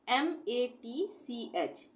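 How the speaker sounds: letters spelled out slowly; slow spelling. Shown as a demonstration. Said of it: "टी के बाद सीएच आए तब टी का उच्चारण नहीं होगा". (अक्षर धीरे-धीरे बोलना)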